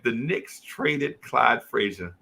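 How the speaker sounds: heavy-hearted, slow and low report; low, slow, solemn news. Retold or imitated. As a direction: deliver it like grim bad news. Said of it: "And I was like".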